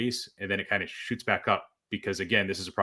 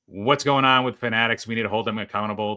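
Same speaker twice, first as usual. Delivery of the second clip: louder mock-outraged reading; mock indignant demand, voice slightly raised; all-caps outrage; 3 semitones higher, 4 dB louder than usual. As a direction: read out an indignant all-caps post, mildly heated. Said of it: "conspiracy in all caps".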